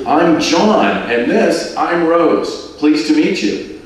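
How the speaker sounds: bubbly Scouse tourist chatting up a stranger; Liverpool man. Acted. John introduces himself and wife.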